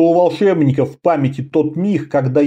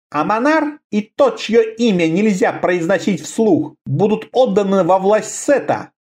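trying to sound firm and forceful; forcing a stronger voice; 4 semitones higher than usual. Acted. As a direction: push your voice to sound strong. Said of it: "попытался придать своему голосу силу".

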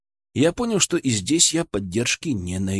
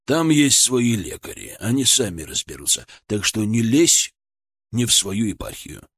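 reluctant senior surgeon; 3 semitones lower than usual. Acted. (начальник неторопливо осаживает подчинённого)

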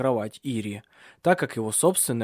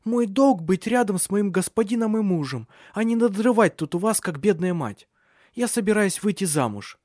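higher, rushed defiance; blurting it all out; 8 semitones higher than usual. A narrator's reading. Iria blurting out her plans to the family. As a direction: get it all out in one breath. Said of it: "выпалила Ирия всё разом".

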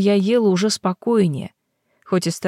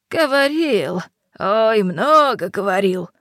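slow, mocking old witch; knowing crone, drawn out; old hag; slower than usual. Yaga recalls the wolf.

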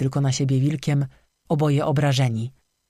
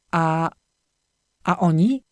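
stammering; slower than usual. A narrator's reading. Ewa stammering about the missing friends, frightened. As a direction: stumble over the first word, scared. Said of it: "wyjąkała".

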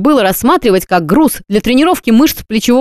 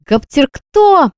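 groaning question; 6 semitones higher, much slower than usual. A narrator's reading. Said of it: "простонала та".

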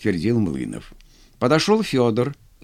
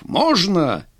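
furious demand; 6 semitones higher than usual. Acted. General presses furiously.

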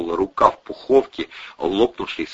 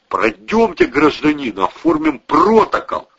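high, loud mock official voice; hammed-up bureaucrat order; mock ticket inspector; 5 dB louder than usual. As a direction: ape the pompous inspector. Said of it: "добавил Волына".

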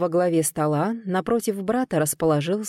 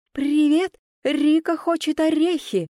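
parrot squawk; 9 semitones higher than usual. A narrator's reading. The parrot demands nuts, in a high squawk. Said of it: "напомнила себе попугай".

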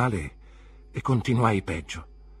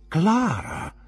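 sharp, much higher and louder warning; stern rebuke; 11 semitones higher, 7 dB louder than usual. A narrator's reading. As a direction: cut her off like a scolding. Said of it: "con severo ammonimento". (ammonimento severo, acuto e forte)

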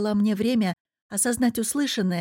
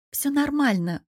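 higher, lightly smiling reply; smiling reassurance; 6 semitones higher than usual. A narrator's reading. Answering his question about her return, smiling. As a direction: reassure with a small smile. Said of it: "улыбнулась в ответ".

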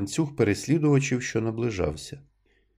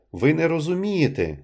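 strained shout; 7 semitones higher than usual. A narrator's reading. Nunez shouting at the blind crowd, voice strained. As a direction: try to sound commanding but it breaks. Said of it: "крикнув він голосним голосом ... пролунав надірвано".

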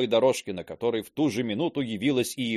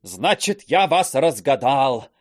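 higher, loud indignation; loud accusing outburst; 6 semitones higher, 7 dB louder than usual. Acted. Teacher accusing Termosesov while thrown out, loud. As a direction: fling the accusation.

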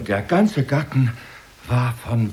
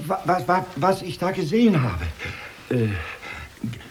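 ängstliches Stottern; 3 semitones higher than usual. Acted. Kaufmann stottert verlegen.

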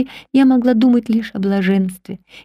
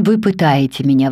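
exclaiming; 7 semitones lower than usual. A narrator's reading. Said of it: "воскликнул он".

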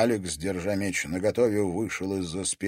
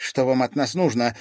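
higher and louder, called out defiantly; shouted out; 6 semitones higher, 7 dB louder than usual. A narrator's reading. Girl confronting armed captors, crying out. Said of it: "выкрикнула Катерина".

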